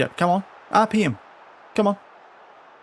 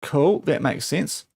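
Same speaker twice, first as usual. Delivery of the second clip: slow deadpan sarcastic remark; flat sarcasm about the inquest; dry sarcasm; slower than usual. Real, not acted. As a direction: pretend it makes sense when it does not.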